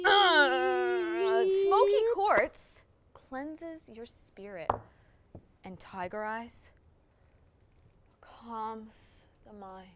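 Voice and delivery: loud gasp then very slow; ecstatic cry. Acted. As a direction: moan out the crystal's power.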